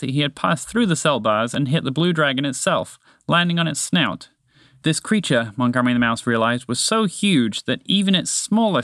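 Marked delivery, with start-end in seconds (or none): none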